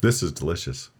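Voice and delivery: talking between sips of beer; while sipping a drink. Real, not acted. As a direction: speak with the glass at the lips, mid-sip. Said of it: "while I drink this beer".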